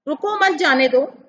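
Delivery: "रुको मत जाने दो" in one breath, no break; no comma pause anywhere in "रुको मत जाने दो"; run together without pause. Shown as a demonstration. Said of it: "विराम चिन्ह थोड़ा सा अलग प्रकार से लगा है".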